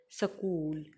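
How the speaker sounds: स्कूल said səkul, short vowel after s; स्कूल split into sə-kul; demonstrated pronunciation. Shown as a demonstration. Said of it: "स्कूल इसको बोला जाता है".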